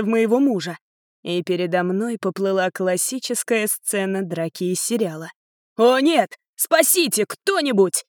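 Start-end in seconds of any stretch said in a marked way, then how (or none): 5.8-8.0 high frantic cry for help; husband wailing under the blows. Acted. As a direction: wail it in panic. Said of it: "истошно вопил мой муж".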